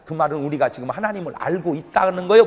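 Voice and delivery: ordinary delivery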